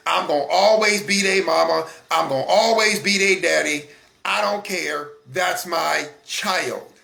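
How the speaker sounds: defiant parent. Retold or imitated. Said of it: "here's the reason I've heard the most".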